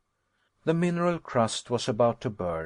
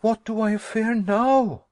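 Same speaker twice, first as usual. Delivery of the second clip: high, loud furious retort; fierce and angry; 10 semitones higher, 5 dB louder than usual. Acted. Nephew snapping back at his calm uncle, angry and high. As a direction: throw the question back in anger. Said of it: "I cried in fierce and angry tones".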